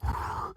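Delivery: deep anxious sigh; heavy sigh. Real, not acted. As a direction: let out a long sigh. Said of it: "this is me breathing into a paper bag".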